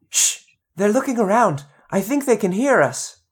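hushed little plant voice. Acted. Plant voice hushing others.

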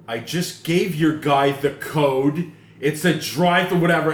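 slow, stern but calm retelling; holding back rage. Retold or imitated. Customer to drive-thru staff, stern, calm, rage held back. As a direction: keep it measured, anger held in. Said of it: "very stern but calm, holding back rage".

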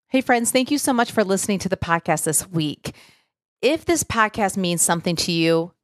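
measured, scripted sign-off with steady pace; podcast outro read. Real, not acted. Host thanks listeners and asks for reviews, scripted outro read. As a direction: read the closing request evenly to listeners.

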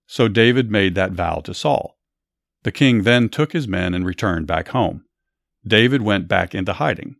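steady, lively Bible storytelling; story narration. A narrator's reading. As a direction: tell it like a story to a listener.

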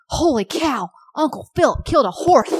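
put-on high, bright toddler voice with a lisp; lisping little girl. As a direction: squeal it like an excited three-year-old. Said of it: "She's like".

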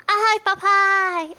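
put-on high, slow little-kid squeal; child voice imitation. Friend imitating a cartoon kid's dub voice, high childish squeal. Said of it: "era uma voz que fazia assim".

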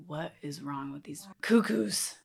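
a snide whispered aside; mocking whisper. Judging the crying girls at the retreat, snide whisper. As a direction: hiss it to yourself, judging the others.

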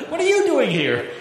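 high, loud startled question with a laugh; mock surprised. God startled to find Elijah, mock surprised. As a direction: ham up a shocked double take. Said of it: "surprised, exclaims".

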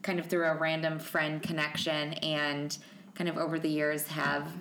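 echoey room sound; echoey mic. Real, not acted. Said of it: "I feel like I sound very echoey".

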